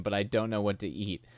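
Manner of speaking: normal talking voice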